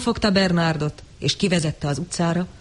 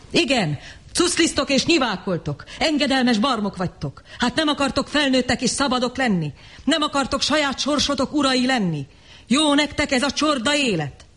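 scornful tirade; 8 semitones higher than usual. A narrator's reading. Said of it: "A durva sértések".

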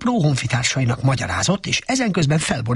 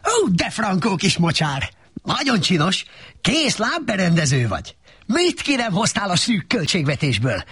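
higher, gushing donkey praise; enthusing; 7 semitones higher than usual. A narrator's reading. Donkey flatters Shrek's swamp, gushing and eager. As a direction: gush over it like an eager donkey.

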